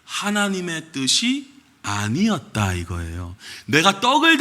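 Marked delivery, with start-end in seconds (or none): 0.0-2.7 slow mock quote. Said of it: "지어낸 해석된 얘기가 뭐냐면 이제 요렇게 얘기를 합니다".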